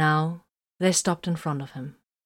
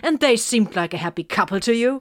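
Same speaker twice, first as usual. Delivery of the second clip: sarcastic snap, higher and louder; sharp angry retort; snapped; 5 semitones higher, 4 dB louder than usual. A narrator's reading. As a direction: bite back with sarcasm. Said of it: "Vox snapped".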